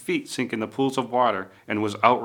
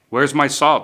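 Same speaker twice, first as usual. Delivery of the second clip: higher, loud demand; 4 semitones higher, 7 dB louder than usual. A narrator's reading. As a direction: snap out the demand. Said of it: "demanded the porcupine".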